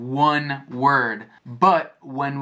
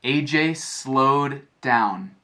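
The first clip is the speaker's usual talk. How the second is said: slowed down; slower than usual. Shown as a demonstration. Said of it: "He ran slower".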